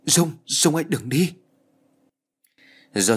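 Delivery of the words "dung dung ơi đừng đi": crying out. Acted. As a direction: cry out to stop her leaving. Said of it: "Tôi gào lên". (gào lên tuyệt vọng, giọng cao và to)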